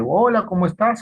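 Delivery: imitating a friendly hello to a child; child-friendly greeting. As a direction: greet a small child at their level. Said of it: "habilidad muy adecuada del timbre de voz".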